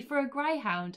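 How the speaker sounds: ordinary talk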